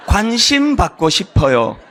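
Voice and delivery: slow, gentle plea; tender interpretation. Shown as a demonstration. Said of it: "통변해요". (화 뒤에 숨은 마음을 천천히 부드럽게)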